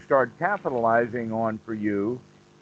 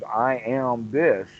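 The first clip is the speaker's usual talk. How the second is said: slow emphatic; much slower than usual. Shown as a demonstration.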